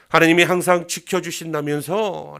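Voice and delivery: loud, sneering quote; mocking jab. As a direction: scoff at the believer's faith. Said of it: "라고 조롱하는 거죠". (비웃는 말투)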